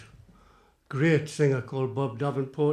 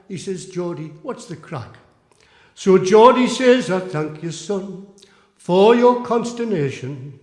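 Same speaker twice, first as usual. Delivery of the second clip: comic poem recital; 3 semitones higher, 8 dB louder than usual. Acted. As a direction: declaim it like a music-hall monologue.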